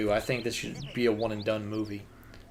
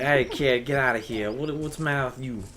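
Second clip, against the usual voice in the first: lightly attempted Chicago tough-guy accent; bad Chicago accent. Imitating the Chicago dude from the movie, bad Chicago accent. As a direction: have a half-hearted go at Chicago. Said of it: "I can't do a fucking Chicago accent".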